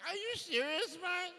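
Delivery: loud, high disbelief; mock outraged retort; incredulous. Son answering his mum, loud disbelief. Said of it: "I was like".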